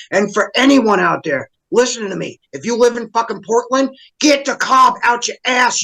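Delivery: real heated rant; a little heated. Real, not acted. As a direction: get worked up as you lecture them. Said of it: "Sorry, got a little heated".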